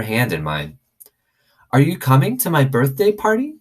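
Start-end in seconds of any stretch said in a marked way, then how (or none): 1.7-3.6 put-on high, wide-eyed small girl, slowed down; awed little girl asking about magic. A narrator's reading. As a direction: marvel at it like a little kid. Little girl Sweetie Pie.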